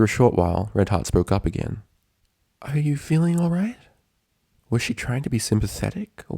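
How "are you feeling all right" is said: gentle nurse. A narrator's reading. Nurse voiced higher.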